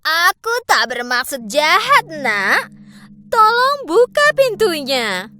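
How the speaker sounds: lightly voiced old woman pleading at the door; a hint of a pleading old woman. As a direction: sound harmless and frail to get let in. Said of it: "terdengar suara wanita tua".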